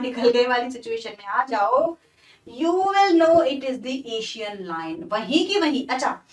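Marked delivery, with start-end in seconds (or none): 2.6-5.1 slow, deliberate recitation of the line; poem reading. Shown as a demonstration. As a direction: read the verse slowly, word by word. (धीमे-धीमे कविता पढ़ना)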